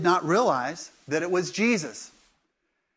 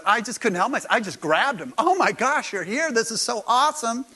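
rising, higher, eager; excited Mary; 5 semitones higher, 3 dB louder than usual. Retold or imitated. Mary telling how she grabbed Jesus, bubbling with excitement. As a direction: gush with joy. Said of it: "And so she goes".

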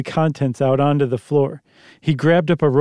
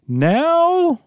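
put-on high boy asking; young boy's surprised question; high child voice; 13 semitones higher than usual. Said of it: "Let me do a different one for Tommy".

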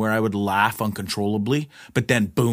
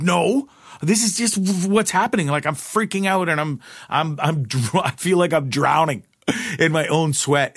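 mock panicked self; 4 semitones higher than usual. Retelling his panicked reply.

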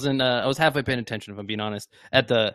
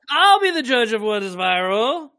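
slow, raised impression voice; higher, stretched-out celebrity parody; Mark Zuckerberg; 5 semitones higher, 4 dB louder, slower than usual. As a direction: draw the line out, pitched up, as a parody tech boss. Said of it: "I'll be Ma-, Mark Zuckerberg".

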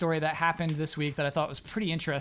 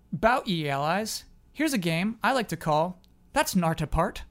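put-on northern irish accent. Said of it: "which is why it's called That's Nartapart".

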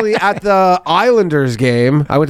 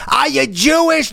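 high, slow lisped shout out a bus window; lisping call; 11 semitones higher than usual. Retold or imitated. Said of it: "they have this weird lisp".

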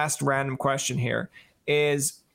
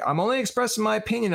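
mock parent; 8 semitones higher, faster than usual. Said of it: "where it's like".

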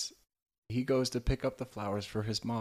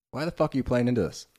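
fast, higher, louder exasperated outburst; imitating angry wife; 6 semitones higher, 9 dB louder, faster than usual. Wife yelling at husband over the episode, mock fury. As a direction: rattle it off as a fed-up wife. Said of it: "his wife watching this episode going".

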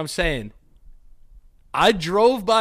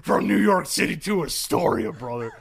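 aggressive; 3 semitones higher, 3 dB louder than usual. Pretend. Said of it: "That was an aggressive bed".

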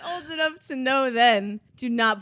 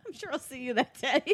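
laughing quote; 2 semitones higher than usual. Retold or imitated. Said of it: "repeating his line laughing".

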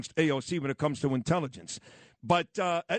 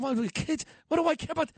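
much higher, indignant comeback; incredulous retort; 11 semitones higher than usual. Retold or imitated. Host retells arguing with program director, incredulous retort. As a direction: pitch jumps up in mock disbelief.

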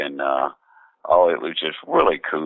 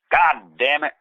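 higher-pitched mock exasperated wife; retold cry of dismay, pitched up; exasperated outburst; 8 semitones higher than usual. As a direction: act out a wife's frustrated curse. Wife upset opening the mail.

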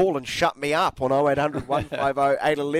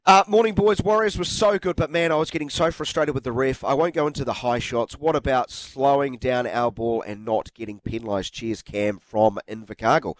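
reading a text message. Acted. Reads a listener's text.

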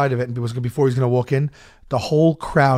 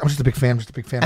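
timid mumble; 3 semitones lower, much faster than usual. Retold or imitated. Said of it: "must sound like Rain Man".

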